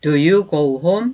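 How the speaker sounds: slow, clear, the end of "home?" lifted up; slow rising yes/no question. Shown as a demonstration. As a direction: raise the tail of the question. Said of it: "뒤끝을".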